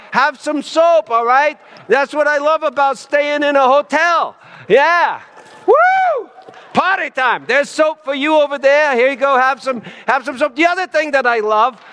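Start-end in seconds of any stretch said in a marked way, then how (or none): 0.1-5.2 bubbly host pushing free soap; excited. Pretend. Innkeeper handing out soap, excited. 5.7-6.3 high whoop of joy; cheer. Pretend. Party cheer. 6.7-10.6 bubbly host pushing free soap; excited. Pretend. Innkeeper handing out soap, excited.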